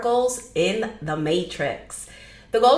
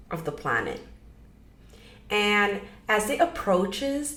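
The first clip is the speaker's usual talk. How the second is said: measured meditation guide with long pauses; gentle guiding, pausing often; guided meditation. Acted. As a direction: ease them into it, leaving room between phrases.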